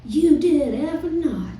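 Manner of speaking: high, incredulous tipsy voice breaking into laughter; a drunk star scoffing at the songwriter's claim, high and laughing; disbelieving drunk Tanya. Retold or imitated. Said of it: "And Tanya goes".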